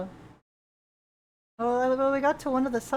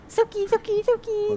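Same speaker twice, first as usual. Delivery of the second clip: gasping, high excited name calls; excited calling; 10 semitones higher than usual. Real, not acted. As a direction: call the name, delighted.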